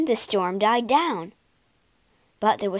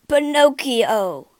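slow, louder cry of joyful recognition; 3 semitones higher, 5 dB louder, slower than usual. Acted. Geppetto finds his son inside the shark, slow loud cry. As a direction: call his son's name in disbelief. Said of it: "cried Geppetto".

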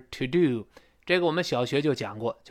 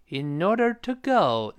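"In order to" raised, GO falling; 3 semitones higher, slower than usual. Shown as a demonstration. Teacher modelling the tune, GO falling slowly. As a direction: go up through "In order to", drop on "go". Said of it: "go注意降，in order to扬上去".

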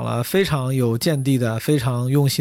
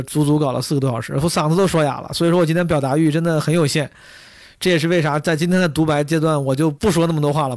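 speaking with a hoarse voice. Real, not acted. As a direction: voice worn hoarse from talking.

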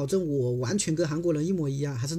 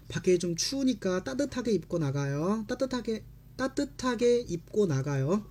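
fast reread; 3 semitones higher, much faster than usual. Shown as a demonstration. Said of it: "teacher rereads at speed".

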